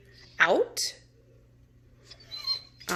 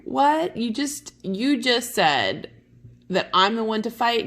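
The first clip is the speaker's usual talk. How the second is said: surprised Benvolio; 5 semitones higher than usual. Acted. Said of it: "probably standing there going".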